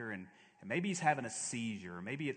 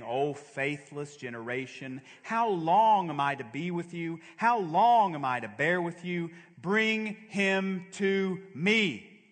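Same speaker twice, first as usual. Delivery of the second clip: Jesus rebuking; 4 semitones higher, 7 dB louder, slower than usual. Acted. Preacher voicing Jesus's rebuke.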